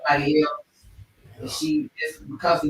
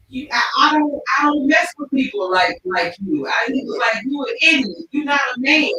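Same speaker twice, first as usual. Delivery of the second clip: high, loud imitated fury; retold anger; 6 semitones higher, 4 dB louder than usual. Angry driver cutting off his friend, imitated yell. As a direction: imitate the pissed-off driver dressing him down. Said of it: "the dude that was driving got so pissed".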